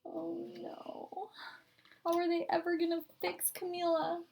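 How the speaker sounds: hushed storyteller whisper; whisper aside. A narrator's reading. Reading to a child, whispering an aside.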